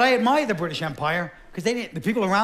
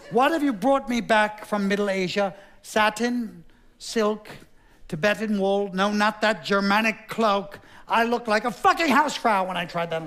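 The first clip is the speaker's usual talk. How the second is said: fussy vain king; 3 semitones higher than usual. Acted. Fussy fashion-obsessed king.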